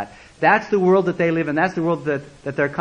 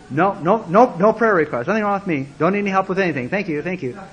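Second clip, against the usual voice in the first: uptight businessmen; 3 semitones higher, 3 dB louder than usual. Retold or imitated. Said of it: "These are very straight, little uptight businessmen".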